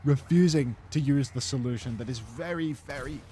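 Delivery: esports play-by-play. Acted. Casts the Overwatch match.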